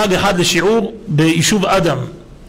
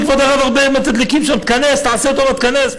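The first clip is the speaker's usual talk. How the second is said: higher-pitched, pushy reassurance; insistent urging; 4 semitones higher than usual. Retold or imitated. Driver persuading the rabbi to enter, imitated urging. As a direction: talk him into it, imitating the driver.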